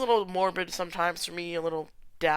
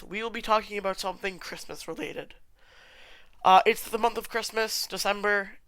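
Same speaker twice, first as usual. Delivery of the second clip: ordinary talk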